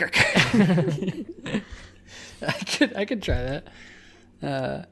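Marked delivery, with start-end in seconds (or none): 0.2-1.7 cartoon laugh. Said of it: "The laugh is so good".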